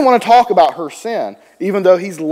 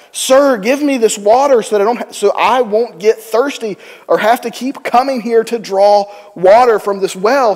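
excited; 4 semitones higher than usual. Acted. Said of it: "Can you see her excitement?".

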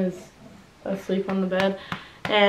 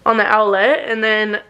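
talking with a retainer in; slightly lisped retainer speech; wearing a retainer. Real, not acted. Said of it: "so I sound a little weird".

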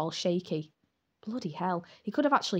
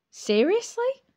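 high, loud disbelieving cry; shocked outburst; 6 dB louder, slower than usual. A narrator's reading. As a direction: throw the word up in outrage.

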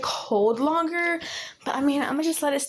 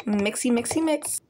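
playful. Real, not acted. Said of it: "Why did I say mix like that".

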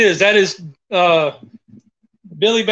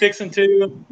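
Southern drawl; slower than usual. Shown as a demonstration. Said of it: "we'll teach you words like".

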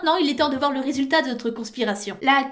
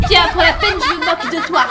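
mocking laugh; 2 semitones higher, 7 dB louder than usual.

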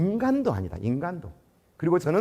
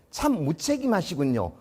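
cold final remark; slower than usual. Retold or imitated. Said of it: "또 이렇게 마침표를 찍어요".

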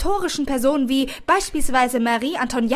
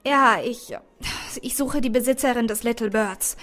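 croaky voice. Acted. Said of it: "mit krächzender Stimme".

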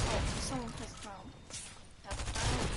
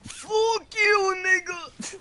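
shouting; 9 semitones higher, 12 dB louder, much slower than usual. Real, not acted. Heated gaming banter.

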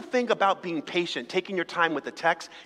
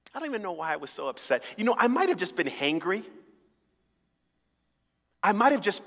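calm morning reflection. Acted. Morning self, calmer.

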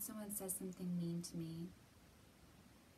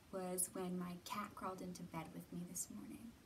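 soft whisper; 3 semitones lower, 5 dB quieter than usual. Acted. Sharing a happy memory.

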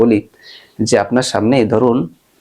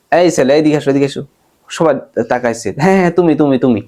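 calling out; 2 semitones higher than usual. Acted. Teacher calls out to a student leaving madrasa, raised voice. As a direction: call a student over across the yard. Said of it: "এভাবে করে আপনি ডাকলেন".

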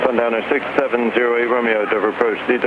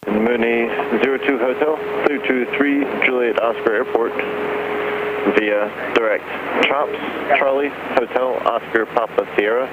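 over a pilot headset. Real, not acted. Controller heard over pilot headset.

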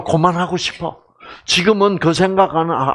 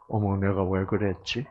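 mock bewilderment; 7 semitones lower, 9 dB quieter than usual. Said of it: "나중에 뭐라 그래요?".

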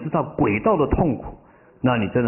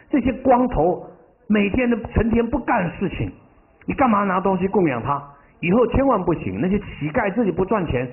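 mother berating her son, voiced higher; mother nagging in a higher pitch about wasted money; scolding mother; 8 semitones higher than usual. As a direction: scold him for giving the money away. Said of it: "珍重的妈妈就一直骂珍重".

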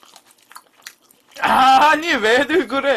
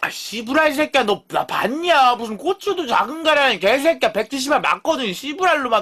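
mock angry rant; 4 semitones higher than usual. Real, not acted. Ranting at a viewer's insult.

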